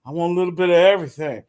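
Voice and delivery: quick, laughing through the words; mock his greedy ask with a laugh; laughing quote. Voicing her husband at the party, laughing fast.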